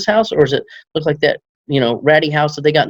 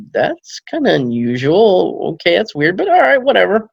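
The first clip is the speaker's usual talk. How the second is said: wary, drawn out; 5 semitones higher than usual. Retold or imitated. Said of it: "I'm like".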